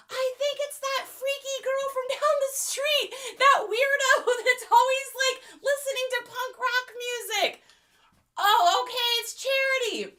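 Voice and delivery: put-on high, catty girl voice; snooty teen girl. Melissa sneering about the punk-rock girl down the street. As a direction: gossip like a snotty teen.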